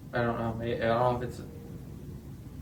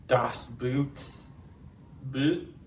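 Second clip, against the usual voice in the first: mock German; much slower than usual. Shown as a demonstration. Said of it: "I was trying to say a high vowel".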